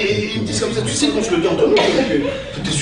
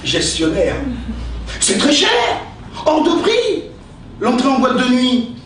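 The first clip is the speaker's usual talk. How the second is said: theatrical verse recitation, with pauses; hammy stage actor; 2 semitones higher than usual. Acted. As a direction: declaim each insult like Cyrano. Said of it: "utiliser son style".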